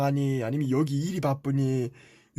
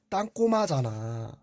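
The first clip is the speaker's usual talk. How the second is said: slow, stretched-out name-calling; drawn-out taunt; 3 semitones lower, slower than usual. Acted. Older brother taunts the younger as a shorty, drawing it out slowly. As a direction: drag the nickname out to needle him.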